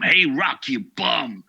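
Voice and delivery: high, loud movie-trainer holler; Mickey impression. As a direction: holler it out in character. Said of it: "he used to say to him".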